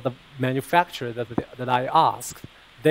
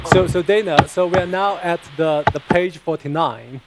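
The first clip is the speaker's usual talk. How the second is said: louder, higher, addressing remote listeners; raised voice; 4 semitones higher, 5 dB louder than usual. Real, not acted. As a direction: speak up so they can hear you. Repeating for listeners who can't hear.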